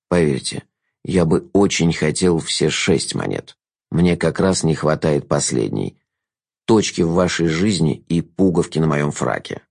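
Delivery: low, slow, smooth jester voice; silky courtly trickster; sly jester. A narrator's reading. Jester's lines.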